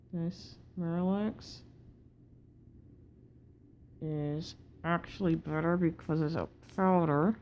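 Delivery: talking through a wired-shut jaw. Real, not acted. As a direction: speak with teeth clamped together after jaw surgery. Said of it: "breathing is difficult with your mouth contained like this".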